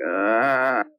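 long, low groan; exasperated groan. Retold or imitated. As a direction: let out a drawn-out, low "ah". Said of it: "I'm like".

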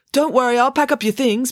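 high-pitched helpful call; calling after someone. Acted. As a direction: call out to a friend leaving. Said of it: "Binky called after her".

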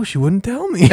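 said through real laughter; laughing. Real, not acted. Telling a friend about the therapist, laughing. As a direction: laugh while saying it.

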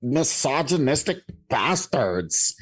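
hammed-up offended liberal, drawn out; offended liberal accent. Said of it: "offended liberal accent".

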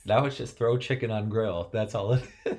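lightly voiced caveman speech; a hint of a simple caveman. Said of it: "why are you speaking like a caveman today?".

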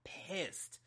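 slow, seething emphasis on "pissed". Real, not acted. Ranting about imposed hang-ups, genuinely pissed. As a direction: drag out "so" and spit "pissed". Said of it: "I'm so pissed".

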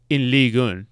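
Ligue un said the French way, leeg uhn; French pronunciation. Real, not acted. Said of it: "I appreciate your extremely French pronunciations there".

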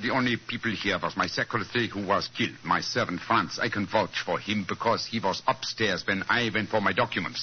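lightly put-on German accent; a hint of a stiff German count greeting guests. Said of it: "And my accent".

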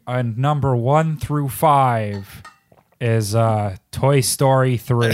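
slow, bored monotone read. Retold or imitated. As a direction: drone it out without excitement. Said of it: "In a, in a monotone voice".

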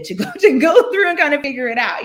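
laughing. Real, not acted. Laughing off the hard time.

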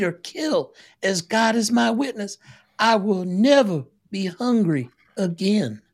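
high, loud, fierce Southern belle oath; dad hamming up Scarlett's vow never to go hungry; defiant Scarlett vow. Acted. Father performs Scarlett's famous vow.

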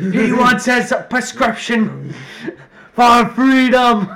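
high, loud and slow, wheezing with laughter; real laughter cracking the words; laughing. Real, not acted. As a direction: barely get it out through laughing. Speaking through laughter.

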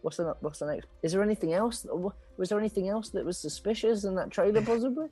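persuaded rat friend. Acted. Ratterson giving in and asking a friend about the trailer. Game master plays Ratterson.

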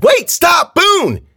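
very high, loud terrified shout; screamed plea. A narrator's reading. Friend begs his attacker to stop, screaming. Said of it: "his friend screamed and cried".

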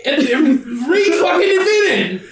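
laughing high and slow through it. Real, not acted. Laughing at his own ridiculous story. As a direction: crack up while telling it.

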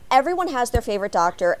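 normal talking voice

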